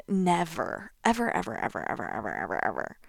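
"ever" repeated and fading into a quiet, low whisper; fading repetition. Real, not acted.

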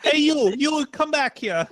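high, drawn-out call; sing-out summons, stretched at the end; calling back. Real, not acted. Calling someone or a pet back.

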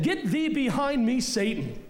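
stern rebuke. Retold or imitated. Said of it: "He said".

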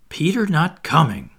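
whispered in dismay; children whispering their shock that Peter stays behind. Acted. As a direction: breathe it out in disbelief.

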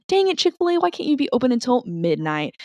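high-pitched playful whine; dramatic plaintive protest, pitch easing down; mock exasperation. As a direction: complain in hammed-up frustration, starting high. Acted complaint to the restaurant.

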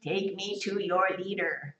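slow, robotic alien greeting; slow, deadpan sci-fi alien. Retold or imitated. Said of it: "The alien says a very famous line".

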